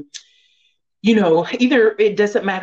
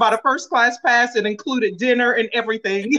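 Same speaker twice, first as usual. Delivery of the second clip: higher, laughing through a mock plea; amused, raised voice breaking into laughs; 6 semitones higher than usual. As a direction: joke through your laughter. Joking about crazy train, laughing.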